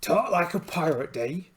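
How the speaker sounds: put-on gruff pirate accent, hamming it up; pirate talk like a sea captain. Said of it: "I'm gonna try and keep this voice up".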